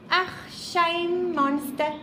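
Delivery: mock South African "Ach, shame" pity; South African accent, mock pity; South African sympathy. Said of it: "typical South Africanism".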